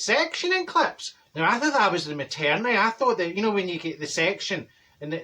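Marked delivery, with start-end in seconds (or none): 0.0-1.1 much higher, slow, puzzled repeat; baffled echo. Retold or imitated. Marjorie repeating the hairdresser's words, baffled and drawn out. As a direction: echo the odd words in disbelief. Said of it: "I says".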